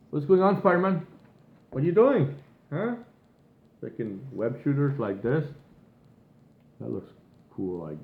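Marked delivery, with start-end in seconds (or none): 0.1-2.9 baffled outcry. Real, not acted. Baffled outcry at Spider-Man.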